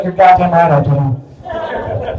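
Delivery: mock-serious eager reply. Her eager reply to Pork Chop.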